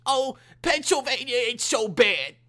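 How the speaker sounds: high, loud, exaggerated mock Jewish accent; Jewish accent impersonation. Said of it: "I did my Jewish fucking impersonation".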